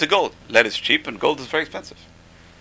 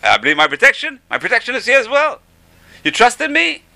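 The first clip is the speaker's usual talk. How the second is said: 1 voice of God; 12 semitones higher, 5 dB louder than usual. Acted. Voicing God's answer.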